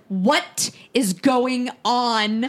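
slow, drawn-out mock scolding; imitating mom's outrage, without full volume; retold angry mom. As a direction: stretch each word like a fed-up mother. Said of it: "come down and scream at you".

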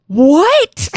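high, loud rising disbelief; mock shock. Acts own shock at the twist.

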